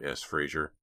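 ordinary delivery, nothing marked

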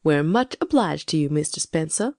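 frosty courtesy to an unwelcome guest; icy. A narrator's reading. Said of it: "said Ma icily".

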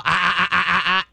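repeated sharp ah ah ah; growl-like ah correction. Shown as a demonstration. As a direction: growl at the dog with ah ah. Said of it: "give her a growl".

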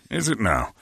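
put-on British charmer; smooth talk in a hammed-up British accent. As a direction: flirt in a mock British accent. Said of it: "unbelievable accent I've ever heard".

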